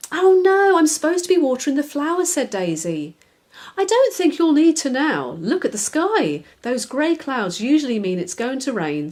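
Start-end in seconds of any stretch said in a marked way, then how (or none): 0.1-2.3 flustered. Acted. Daisy flustered, hurried. 3.8-9.1 knowing. Acted. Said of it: "said the spider knowingly".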